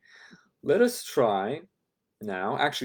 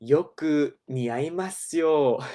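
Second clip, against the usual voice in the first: flattering clerk; 5 semitones higher, 4 dB louder than usual. Shown as a demonstration. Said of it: "the clerk could say".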